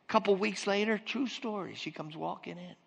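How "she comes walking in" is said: ordinary talk, nothing marked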